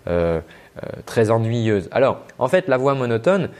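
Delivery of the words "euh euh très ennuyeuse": a hint of a dull cartoon drone, dropping low; low, listless, boring voice; Droopy. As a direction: lightly imitate a boring, monotone cartoon character. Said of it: "comme le personnage Droopy".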